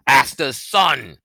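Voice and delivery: loud, slow cry of recognition; cried out. A narrator's reading. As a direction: call out the name in shock. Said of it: "Aycliffe cried".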